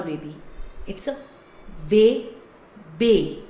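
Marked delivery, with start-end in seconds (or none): 1.9-3.4 BÉBÉ as "bay ... bay", long pause between; French é sound. Shown as a demonstration. Teacher drilling the French word, French pronunciation. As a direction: draw out both syllables of bébé. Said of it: "So then sound is A".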